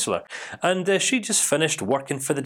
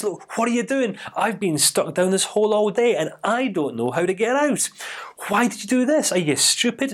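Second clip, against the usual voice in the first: exasperated; 6 semitones higher than usual. Retold or imitated. Man scolds friend who jumped in.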